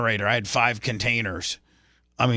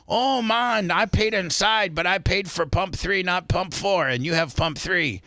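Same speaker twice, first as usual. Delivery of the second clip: light Jamaican accent, pitched higher, imitating the guy at the pump; a hint of a Jamaican man, pleading he paid; mock Jamaican accent; 4 semitones higher than usual. Stranger at the gas pump explaining he paid, in a light mock Jamaican accent. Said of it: "And he's Jamaican. He's like".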